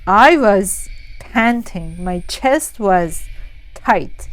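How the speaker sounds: dramatic storytelling. A narrator's reading. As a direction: draw out each image with heavy pauses. Dramatic telling of nightmare.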